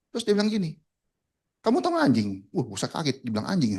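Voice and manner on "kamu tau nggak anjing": angry boss. Retold or imitated. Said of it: "dia marah besar".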